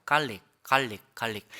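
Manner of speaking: 갈릭 in two plain Korean syllables, no R; Korean-style pronunciation. Shown as a demonstration. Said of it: "우리가 발음하는 갈릭은 이거예요". (갈릭을 한국식으로 또박또박)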